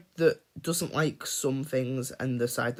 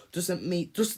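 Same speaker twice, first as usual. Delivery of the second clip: whispered aside; 5 semitones higher than usual. Real, not acted. Aside while ranting about nitpicks.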